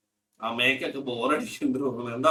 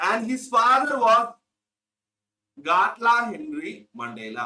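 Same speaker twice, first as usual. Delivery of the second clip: very slow, higher reading for notes; slow dictation; 6 semitones higher, much slower than usual. Shown as a demonstration. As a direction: read it out word by word for copying. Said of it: "dictating text to class". (ക്ലാസിനായി പതുക്കെ വായിക്കുന്നു)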